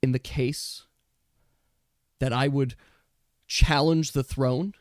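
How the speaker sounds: a lightly voiced noble rebel; defiant raccoon Dish. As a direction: defy the false empress to her face. Raccoon Dish defies the court.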